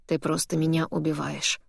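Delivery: strained, choked-off voice; choking. Acted. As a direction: squeeze the words out as if choking. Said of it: "сдавленным голосом говорит Алекс".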